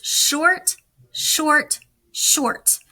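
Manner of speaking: three quick crisp shorts, the last breathed; clipped short beeps. Shown as a demonstration. Teacher to students, repeating the dots for C, crisp. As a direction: tap out the dots with your voice. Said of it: "I want you to listen".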